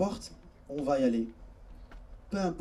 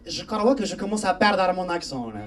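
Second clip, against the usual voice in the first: put-on Algerian-accented French, confiding in a friend; thick Algerian accent. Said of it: "imaginez quand il avait l'accent".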